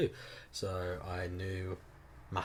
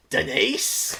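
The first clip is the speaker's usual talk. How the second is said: calling out; 11 semitones higher, 10 dB louder than usual. Retold or imitated. Woman in audience calls out.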